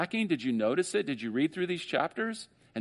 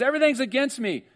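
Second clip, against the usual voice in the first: whining Jacob; 11 semitones higher, 4 dB louder than usual. Acted. Voicing Jacob's complaint.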